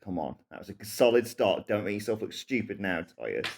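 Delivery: low, soft self-talk in character; muttered to himself. Acted. Player's Goliath muttering to himself before the roll. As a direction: mutter it under your breath as the hero. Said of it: "He says this aloud".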